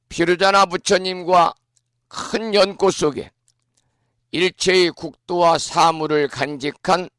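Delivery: usual speaking voice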